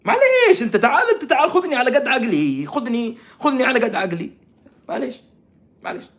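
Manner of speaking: high-pitched playful plea; high, teasing appeal; mock pleading. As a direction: beg to be humoured, pitched well up.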